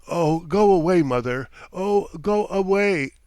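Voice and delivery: loud, sobbing cry to be left alone. A narrator's reading. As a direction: push her away through tears, rising. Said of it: "sobbed Nadya".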